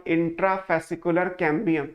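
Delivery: very slow, spelling out intrafascicular cambium word by word; teacher slowing down on a term to remember; slow dictation. Shown as a demonstration. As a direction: dictate it so students can write it down. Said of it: "ये आपको word याद रखना है।".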